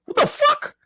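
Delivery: very high, strained disbelief; incredulous. Real, not acted. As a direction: yelp it up high like it's absurd. Outraged reaction in rant.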